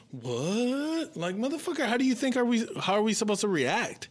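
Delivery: high-pitched, incredulous outrage; indignant retort. Retold or imitated. Man retelling his retort to staring passengers, indignant. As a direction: fire back in disbelief, pitch shooting right up.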